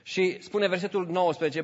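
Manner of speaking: ordinary delivery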